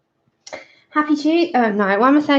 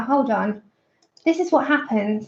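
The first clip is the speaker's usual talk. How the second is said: breathless and puffing; winded from rushing about; out of breath; 2 semitones lower, 4 dB quieter than usual. Real, not acted. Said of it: "I sound like I'm so out of breath".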